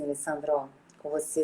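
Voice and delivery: soft, mumbled words without moving the mouth; mumbling. Shown as a demonstration. Therapist demonstrating to Alessandro how poor diction sounds, mumbled. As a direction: speak with a frozen jaw and poor diction. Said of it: "sem mexer minha boca, com pouca dicção".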